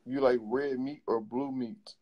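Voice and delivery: "You like red meat or blue meat", slowed down to be understood. Real, not acted.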